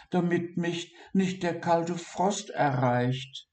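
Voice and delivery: a small creature panicking about its sore paw; high-pitched anxious dormouse; worried dormouse Siggi. A narrator's reading. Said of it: "dachte Siggi".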